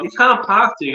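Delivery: high, loud mock scolding in a light British accent; cheeky British driver. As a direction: tease the stuck driver. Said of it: "He's like".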